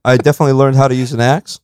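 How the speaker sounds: talking through hiccups; hiccuping between words. Real, not acted. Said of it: "I already have the hiccups here".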